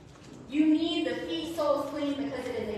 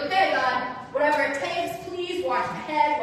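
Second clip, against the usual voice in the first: louder, eager pleading to God; urgent plea; 5 dB louder than usual. Retold or imitated. Peter begging Jesus in retelling.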